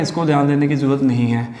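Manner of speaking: ordinary talk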